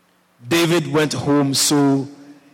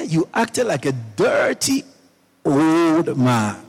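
mock scolding yell; 2 semitones higher, slower than usual. Preacher quotes Saul's daughter yelling at David, mock scolding. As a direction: imitate an indignant telling-off without shouting. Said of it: "Started yelling at him".

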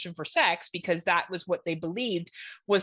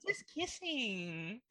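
mock shy teen; 3 semitones higher, 12 dB quieter, much slower than usual. Mock teen answer to dad.

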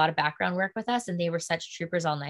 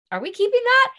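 high, startled disbelief; surprised; 7 dB louder than usual. Retold or imitated. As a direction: ask in shocked disbelief. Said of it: "I was like".

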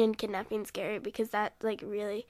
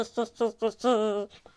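witch laugh. Pretend. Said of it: "was trying to do a witch laugh".

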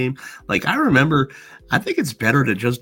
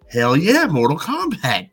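mild hyped cheer, a little higher; pumped-up reaction; 5 semitones higher than usual. Retold or imitated. Kids reacting to the game commercial, mildly pumped up. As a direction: react like a hyped kid watching TV. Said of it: "We were all just like".

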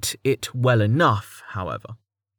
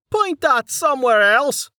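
higher, irritated Dell; Dell, annoyed. Acted. Dell tells Mig to move the beam, irritated and higher. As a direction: snap it out, higher.

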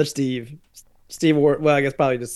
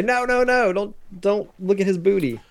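mock pleading; 7 semitones higher than usual. Acts out pleading against looking.

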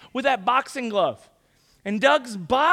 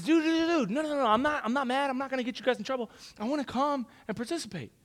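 pitched-up, hurried friend wanting in; eager reassurance; 3 semitones higher, 4 dB quieter, faster than usual. Retold or imitated. Eager friend reassuring, asking to join.

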